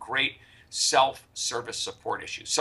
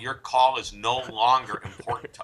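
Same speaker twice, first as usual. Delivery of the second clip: phone menu voice. Retold or imitated. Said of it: "The recording is".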